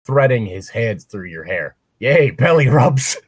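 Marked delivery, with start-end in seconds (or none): 2.0-3.2 mock delight.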